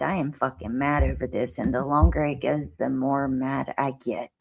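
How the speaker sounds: talking through clenched teeth; through gritted teeth. Real, not acted. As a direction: jaw locked, words squeezed out. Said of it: "I'm gonna talk through my teeth".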